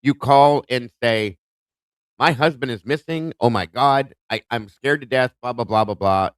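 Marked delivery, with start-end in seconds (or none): 2.2-6.3 a touch of panic, as a 911 caller should sound; mock panicked caller. Shown as a demonstration. Host shows how a worried wife calls 911, mildly panicked. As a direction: lightly act out a frightened wife calling for help. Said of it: "with some panic in your voice".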